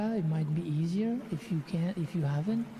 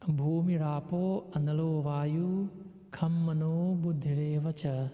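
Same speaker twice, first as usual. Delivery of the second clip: scripture recitation. Real, not acted. Recites a Gita verse.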